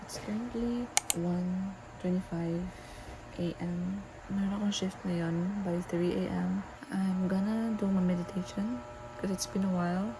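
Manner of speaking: soft late-night whisper, everyone asleep. Real, not acted. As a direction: keep it hushed so nobody wakes. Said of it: "I'm whispering 'cause everyone is asleep".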